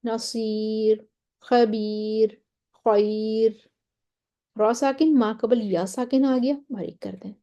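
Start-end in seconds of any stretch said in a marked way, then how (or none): 0.1-3.7 slow demo of नसीर, खबीर, खैर with a light, thin final r. Shown as a demonstration. Tajweed teacher shows examples of light ra, thin ra. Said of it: "सारी रॉ जो हैं वो बारीक हैं".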